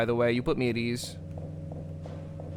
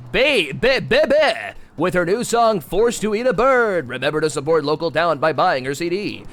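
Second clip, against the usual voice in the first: mock show host. Streamer plays a show host introducing bands, hammed-up announcer. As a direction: play a cheesy stage emcee.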